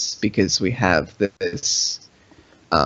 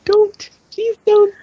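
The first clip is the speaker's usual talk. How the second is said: high, hammed-up begging; dramatic pleading; 4 dB louder, slower than usual. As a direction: beg like a soap opera. Pleading with dying friend.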